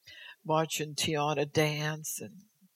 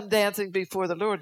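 excited reply; 3 semitones higher, 4 dB louder than usual. Retold or imitated. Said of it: "I said".

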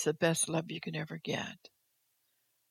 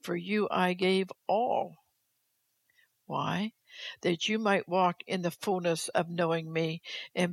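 measured, steady proclamation as God; formal pulpit reading; solemn declaimed reading. Acted. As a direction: read it out in long, weighty phrases. Rereads God's words for emphasis.

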